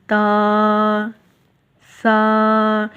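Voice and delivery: ता and सा drawn out in clear Arabic articulation; Arabic letter sounds. Shown as a demonstration. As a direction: model each letter sound for the student. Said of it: "सा जैसे मैंने आपको ... अदायगी". (अरबी हरफ़ों की साफ़ अदायगी)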